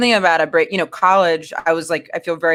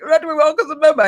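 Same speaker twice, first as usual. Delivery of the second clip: mopey complaint; 8 semitones higher, faster than usual. Retold or imitated. Retold self complaining to girl.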